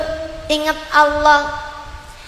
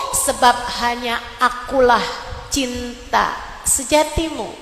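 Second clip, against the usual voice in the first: voicing God gently; 5 semitones lower than usual. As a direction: speak as God calling the heart back, hushed. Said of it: "Seolah-olah Allah berkata".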